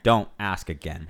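sharp shouted command; playful bossy shout; mock stern order. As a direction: shut the question down hard.

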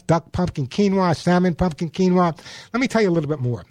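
live sponsor read in the host's own lightly pitched voice; radio ad read. Acted. Radio host pitching pet food to his listeners, light ad read. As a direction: sell the pet food to the listeners, steady and upbeat.

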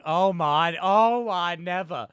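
lightly voiced, slow, scandalised southern belle; a hint of a shocked southern lady. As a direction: clutch your pearls and drawl it out. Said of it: "she's going back going".

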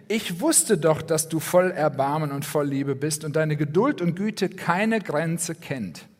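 Jona complaining. Retold or imitated. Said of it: "Er sagt da nämlich".

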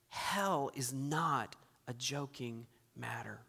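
slow, soft grave whisper; a preacher hushing the laughing crowd with a grave whisper; solemn whisper. Real, not acted. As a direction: hush the room with the warning. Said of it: "solemn whisper after laughter".

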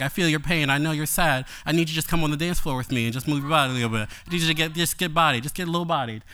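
Bill Clinton schmoozing. Retold or imitated. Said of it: "like Bill Clinton on the campaign trail".

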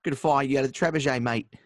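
lightly put-on cockney accent; a hint of cockney English. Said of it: "that sounded a little cockney".

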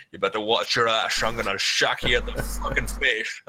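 lightly voiced menacing threat; mock tough guy. Mocking a bad movie actor, lightly menacing. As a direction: play a bad tough guy, half-hearted. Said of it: "Chucker's like".

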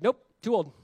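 high, loud scoffing refusal; doubting old man. Retold or imitated. Zacharias refusing the angel's promise, mock scoffing. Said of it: "He's like".

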